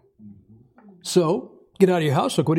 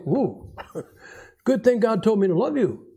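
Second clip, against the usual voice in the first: mock inner thought; 4 semitones higher than usual. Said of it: "you think".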